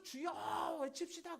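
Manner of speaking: slow, high, loud call; leader's rallying shout. Retold or imitated. Prayer leader urging everyone to shout, drawn-out rallying shout. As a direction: stretch out the call to the crowd.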